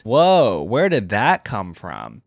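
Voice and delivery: real surprise on a loud opening whoa; drawn-out, taken-aback reaction; surprised. Real, not acted. Reader caught off guard by lore turning serious, surprised.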